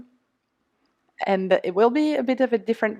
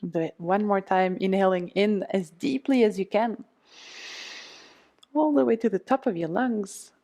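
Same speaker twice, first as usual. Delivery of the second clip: guided meditation. Acted. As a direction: talk them gently through the massage. Leads a guided self-massage meditation.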